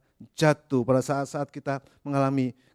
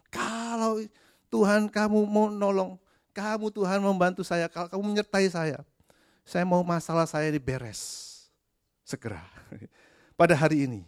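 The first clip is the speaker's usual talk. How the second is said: much higher, bossy mock prayer; mock demanding believer; 6 semitones higher than usual. Preacher imitates believers who demand an answer today, high and pushy. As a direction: order God around like a customer. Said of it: "mengatakan hal yang sama".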